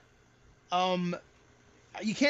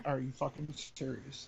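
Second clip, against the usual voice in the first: muttered disbelief; 7 semitones lower, 11 dB quieter than usual. Retold or imitated. Reacting in disbelief to announcers.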